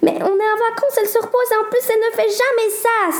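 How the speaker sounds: high-pitched upset outburst; crying out. Acted. Sarah protesting to Corentin, high agitated cry. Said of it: "s'écria la fille aux yeux bleus".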